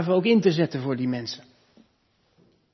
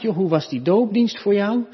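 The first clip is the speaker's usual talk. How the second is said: lightly voiced chatty question, pitched up; casual churchgoer asking; 6 semitones higher, 4 dB louder than usual. Churchgoers asking each other about the baptism service, lightly imitated chatty question. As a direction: ask like a curious fellow churchgoer. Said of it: "als je dan aan elkaar vraagt".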